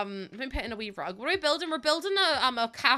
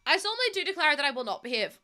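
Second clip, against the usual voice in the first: mock-solemn pledge twisted with a cheeky not; chat's cheeky version; 4 semitones higher, faster than usual. Reading chat's twisted pledge back, lightly mocking. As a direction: read chat's naughty version as a lighthearted vow. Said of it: "That's not exactly what I said".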